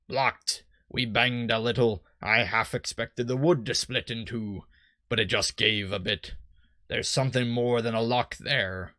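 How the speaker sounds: lightly voiced old sea-dog; a hint of stock pirate in it; generic pirate. Boat salesman explains the fog, light generic pirate. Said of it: "my generic pirate".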